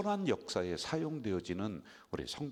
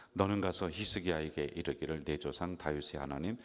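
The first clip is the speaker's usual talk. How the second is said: solemn, slowing verse read; scripture reading; 4 semitones lower than usual. Acted.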